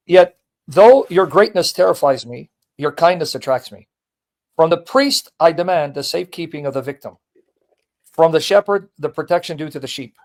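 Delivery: measured, declaimed reading of a letter; formal reading aloud. Acted. Host reading a saint's letter to the pope, formal reading. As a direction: read it out with deliberate phrasing.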